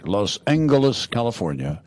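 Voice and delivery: put-on Los Angeles said grandly, old-time radio style; old radio announcer. Shown as a demonstration. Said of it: "I like to say it the old radio, old-time radio announcer way".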